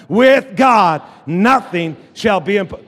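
big punched words, loud and deliberate; loud rallying declaration. Shown as a demonstration. Preacher rousing the congregation to say the verse, loud. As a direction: drive the chant home loudly. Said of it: "Say it loud".

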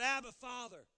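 high, loud begging shout, stretched out slowly; Jesus crying out to his Father in anguish, begging; desperate cry. Acted. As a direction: plead with your Father at the top of your voice. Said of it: "He cried".

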